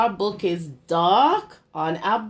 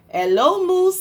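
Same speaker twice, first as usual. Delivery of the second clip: high bright chirpy hello; cheery duck greeting; 11 semitones higher, 7 dB louder than usual. Acted. Duck calls out to Cow as he rides past, high and cheery. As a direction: greet like a happy little duck on a bike.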